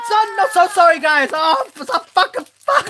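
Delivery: loud frustrated yelling over a bad pack; angry shouting. Real, not acted. Unboxing a duplicate figure, shouting angry curses at camera. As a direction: shout and swear at the toy packet. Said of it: "sorry for the shouting".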